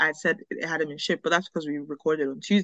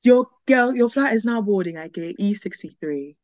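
airport announcement. Retold or imitated. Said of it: "one automated voice I hear".

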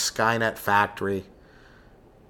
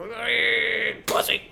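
mock pain yell; 10 semitones higher, much slower than usual. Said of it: "all make different yells".

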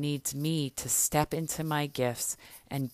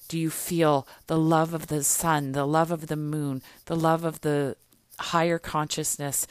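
louder, impassioned build; rousing; 5 dB louder than usual. Acted. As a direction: lift the listeners up. Rousing the listeners with love.

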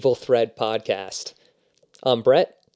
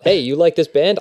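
higher, rising, eager ask; high eager question; 5 semitones higher, 5 dB louder than usual. Retold or imitated. Two guys meeting, acted exchange.

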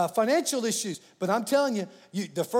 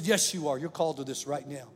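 low, soft, firm answer; calm voice of God; 5 semitones lower, 4 dB quieter than usual. Retold or imitated. God answering the angry preacher, low and quiet. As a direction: settle him quietly and steadily.

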